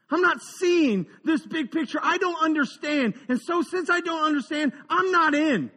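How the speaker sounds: complaining believer pleading with Jesus, rising as it goes; whiny excuse. Acted. Believer making excuses to Jesus, growing indignant. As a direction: argue your case with Jesus, building up.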